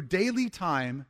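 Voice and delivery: "daily" drawn out slowly and firmly; weighty, slowed emphasis on "daily"; stress on daily. Real, not acted. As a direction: lean on "daily", taking it slow. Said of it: "emphasis on daily".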